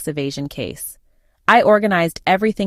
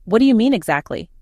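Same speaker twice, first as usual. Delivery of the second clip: mildly puzzled, pitched higher; feigned confusion; 4 semitones higher than usual. Pretend. Daughter-in-law draws out a confession, feigning confusion. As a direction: act innocently baffled. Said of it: "I acted confused".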